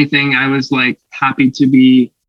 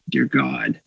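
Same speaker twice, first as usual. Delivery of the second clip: much lower, breathy plea to God; whispered prayer; 13 semitones lower, 9 dB quieter than usual. Retold or imitated. Struggling actor praying for a speaking role, whispered. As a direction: whisper it up to heaven.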